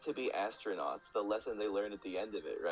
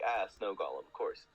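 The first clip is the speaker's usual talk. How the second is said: mock matter-of-fact. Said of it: "you're just supposed to be like".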